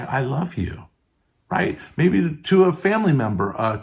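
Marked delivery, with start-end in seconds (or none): 0.0-0.8 sincere. Shown as a demonstration. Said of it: "you can be more sincere and you can say".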